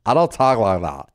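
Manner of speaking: mock girl-speak denial; imitation of a protesting sister; mimicking sister. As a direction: deny it in your sister's affected vowels. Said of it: "She goes".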